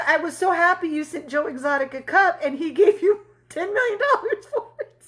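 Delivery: giggling through the husband's words, pitch jumping up at the end; laughing husband. Retold or imitated. Imitating the husband telling his dream, laughing.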